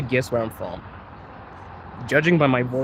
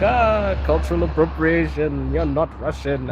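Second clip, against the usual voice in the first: higher-pitched exclamation, easing into a lightly mocked complaint; mock outraged critic; 3 semitones higher, slower than usual. Streamer imagining people objecting to his channel name, mock outrage. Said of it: "people were gonna be like".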